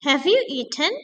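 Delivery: "Have you eaten?" with the voice going up at the end; teacher demo of rising tune; rising intonation. Shown as a demonstration. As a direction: model a yes-no question with a rise. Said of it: "Nadanya menggunakan rising intonations".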